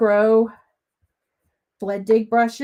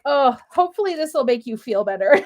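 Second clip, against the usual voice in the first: quick words through laughter; laughing consolation; faster than usual. Retold or imitated. Crafter consoling friend about messy desk, laughing. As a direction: laugh while comforting. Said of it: "And I'm like".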